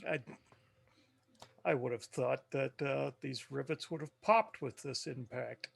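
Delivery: softly musing aloud, casually; nonchalant. Acted. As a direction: nonchalant talk over a piece of craft. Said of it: "I'll just kinda nonchalantly".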